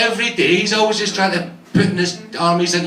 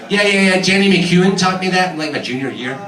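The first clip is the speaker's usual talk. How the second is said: put-on American accent; 3 dB louder than usual. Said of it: "nice young American girl".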